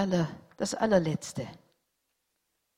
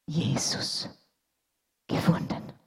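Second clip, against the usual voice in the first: whisper; 2 semitones lower than usual. A narrator's reading. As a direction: breathe the words with awe. Surgeon answers boy softly.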